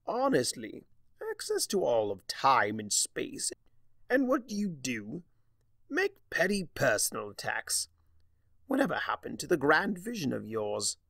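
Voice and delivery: exasperated lecturing trickster, pitch leaping up; lightly voiced scornful Discord; mock-scolding Discord. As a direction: chide her with theatrical disappointment.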